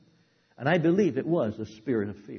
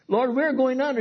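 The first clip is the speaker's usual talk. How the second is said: louder, higher desperate shout; high loud panicked cry; 9 semitones higher, 5 dB louder than usual. Acted. Disciples crying to their Lord in the storm, high panicked shout. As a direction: shout it as the boat fills.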